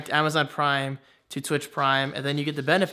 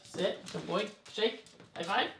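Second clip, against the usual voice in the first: soft commands; 5 semitones higher, 6 dB quieter than usual. Real, not acted. Giving dog commands softly.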